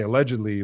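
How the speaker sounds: "allegedly" said with deliberate emphasis; stress on allegedly. Real, not acted. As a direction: underline the word "allegedly" as a caveat. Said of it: "with a strong em".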